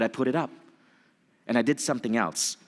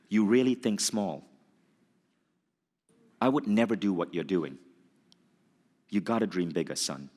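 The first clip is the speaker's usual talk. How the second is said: stern voice. Retold or imitated. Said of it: "intense voice".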